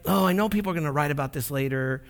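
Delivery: mock grudging, grumbled obligation; through gritted teeth. Preacher imagining a reluctant Jesus on the cross, mock gritted teeth. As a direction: act put-upon, forcing it out through gritted teeth. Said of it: "saying that through gritted teeth".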